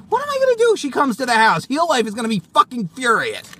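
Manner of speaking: fast, high-pitched fretting, easing down; stressed out. Acted. Man dreading his wife's fury, stressed. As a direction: fret aloud about what happens next. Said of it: "I am stressing out of my mind".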